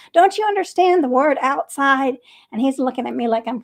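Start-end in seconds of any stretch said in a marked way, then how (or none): 0.1-2.2 louder, higher mock yell of frustration; half-playful shouting at a confused puppy; imitating yelling at a dog that won't learn; mock scream at the dog. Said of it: "I started screaming at him".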